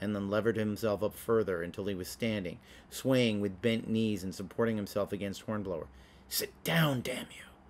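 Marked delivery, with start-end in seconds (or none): 6.3-7.4 whisper shaking with fury and anxiety, pitched up. Hornblower to Hales, who is swaying and leaning against him; furious, anxious whisper. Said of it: "whispered Hornblower, shaking with fury and anxiety".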